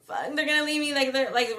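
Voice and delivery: half-laughing imitation of her panic; mock panic. Mocking her inner panic.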